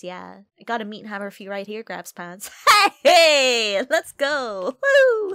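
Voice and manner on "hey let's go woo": loud, high cheering; excited cheer. Real, not acted.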